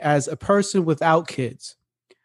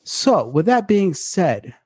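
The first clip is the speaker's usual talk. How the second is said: radio voice. Pretend. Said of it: "get in my radio voice bag today".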